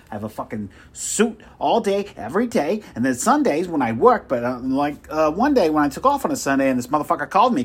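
puffed-up boasting at full volume; loud bragging. Acted. Salesman bragging loudly.

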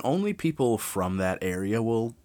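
normal talking voice

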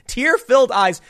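laughing through the words; cracking up mid-sentence. Real, not acted. Laughing while retelling.

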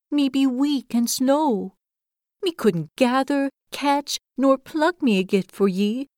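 a tiny creature speaking up humbly; humble hedgehog. Acted. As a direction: offer the gift shyly but bravely. Hedgehog offers gift to host.

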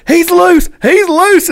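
high urgent alarm; alarmed cry. Retold or imitated. Buddy crying out the fish is loose, high alarmed. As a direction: warn that the fish got away. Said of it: "And he goes".

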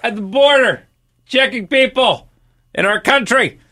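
incredulous. Real, not acted. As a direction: stretch it out in disbelief. Incredulous at border checkpoints.

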